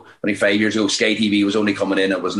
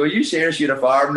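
mildly incredulous, higher-pitched quote; mock incredulous; 5 semitones higher than usual. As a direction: imitate people who can't believe it. Quoting surprised Dublin people.

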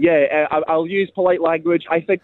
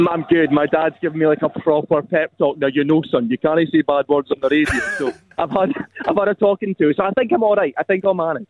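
broad Dundonian accent; thick local Dundee voice. Real, not acted. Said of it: "What voice is that you're putting on?".

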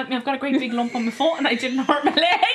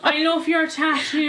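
put-on Longford accent; 3 semitones higher, slower than usual. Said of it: "is that how you think Longford people sound".

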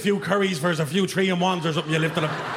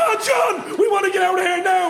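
high-pitched scared yelp; panicked high plea; 12 semitones higher, 4 dB louder than usual. Retold or imitated. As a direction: squeal it out in a panic, high and shouty. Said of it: "The lads".

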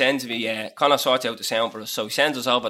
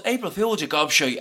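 gleeful reveal. Retold or imitated. Gleeful April Fools reveal.

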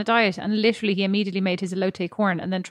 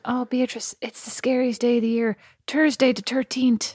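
mock Irish accent; slower than usual. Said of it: "jokes at my expense, the expense of my Irish accent".

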